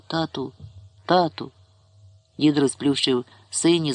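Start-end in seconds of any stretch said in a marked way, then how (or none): 0.1-1.5 calling father. A narrator's reading. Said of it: "покликав".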